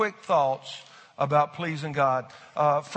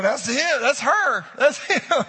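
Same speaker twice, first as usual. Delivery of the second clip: higher, louder, laughing; pointing at your spouse, laughing; mock pointing out; 9 semitones higher, 8 dB louder, slower than usual. Congregation imitated pointing at spouses, laughing and loud. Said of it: "You're going".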